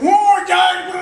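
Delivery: high, loud mock howl; retold frantic yell. Storyteller imitates the pinned man, high garbled shout.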